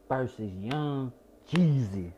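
slow, drawn-out match billing; hyped-up headline introduction; mock announcer. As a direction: stretch the name like a ring announcer. Announces rap battle like a ring announcer.

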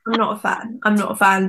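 imitated deadpan refusal; unimpressed, no emotion. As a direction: play an unmoved listener, low-key and even. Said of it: "no emotion".

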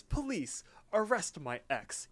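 high-pitched mock call for police; imitated outraged girlfriend. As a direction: act out a cartoon ex reporting him. Retold phone call to police.

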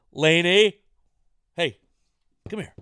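loud high call to the dog; yelling across the room. Real, not acted. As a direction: call her from another room.

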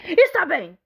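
a touch of a greedy troll. Acted. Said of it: "disse o troll guloso".

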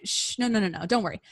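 softly hushing and soothing; calm an upset diva down; soft shushing reassurance. Retold or imitated. Managers soothing Carlotta.

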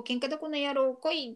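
hammed-up but mild anger; mock angry challenge. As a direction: act out picking a fight, not shouting. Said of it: "カッカと怒って".

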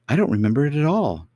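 cartoon princess. A narrator's reading. Princess replies.

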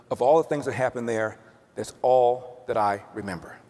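measured, rhythmic verse recital; understated poem reading; poem recitation. Acted. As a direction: recite the rhymed verse simply, letting each line settle.

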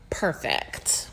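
low, whispered admiration; hushed gushing. Real, not acted. Fan gushing about her favourite contestant, hushed gushing. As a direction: drop to an awed whisper. Gushing over the retold taxi post.

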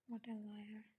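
low, soft aside; scornful aside. A narrator's reading. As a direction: mutter it to yourself in disbelief. Aside about the lying father.

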